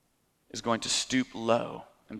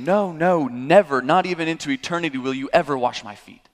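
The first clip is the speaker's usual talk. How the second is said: higher and louder, each no hammered home; emphatic refusal; 5 semitones higher, 6 dB louder than usual. Retold or imitated. Peter refusing to let Jesus wash his feet, loud and adamant. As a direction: refuse flatly, like a final word. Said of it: "Peter says in the strictest terms".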